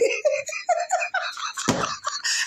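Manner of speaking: long, high breathless laugh; real helpless giggling, falling away; laughing fit. Real, not acted. Woman amused by her own English, laughing hard.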